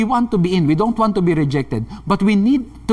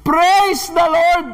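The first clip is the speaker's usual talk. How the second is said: high, drawn-out shout of praise; imitated triumphant praise shout; shouting even more; 10 semitones higher, 3 dB louder, much slower than usual. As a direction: belt it out high and slow, defiantly. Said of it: "lalo pa siyang sumigaw".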